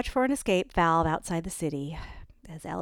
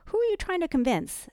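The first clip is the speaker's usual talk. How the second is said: pointed, higher challenge; challenging; 12 semitones higher, 5 dB louder than usual. A narrator's reading. Annika challenging her friend, pointed. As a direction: press her on it.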